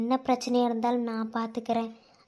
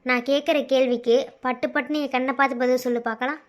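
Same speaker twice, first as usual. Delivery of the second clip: pressing demand; 2 semitones lower, 4 dB louder, faster than usual. Acted. Demanding answer.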